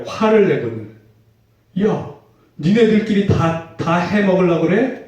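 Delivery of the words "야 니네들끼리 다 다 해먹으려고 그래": higher, indignant "what, you two grabbing it all?"; a playful jab of jealous outrage; mock angry disciple. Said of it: "그러면서 화를 내는 거예요".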